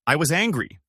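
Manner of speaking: a lightly voiced sharpened reply; a hint of a sharp edge, narrated. A narrator's reading. Ex-wife turning sharp on her ex-husband, mildly sharpened. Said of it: "Then her voice sharpened".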